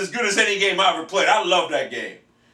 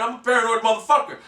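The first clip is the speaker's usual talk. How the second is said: usual speaking voice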